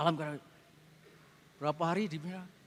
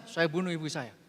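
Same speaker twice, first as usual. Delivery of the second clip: robotic confession; 5 semitones lower than usual. Retold or imitated. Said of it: "Seperti robot".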